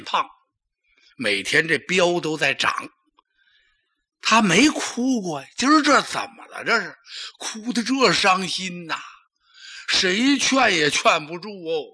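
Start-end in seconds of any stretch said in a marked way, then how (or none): 4.2-9.0 puzzled. Acted. Onlookers puzzled at emperor crying.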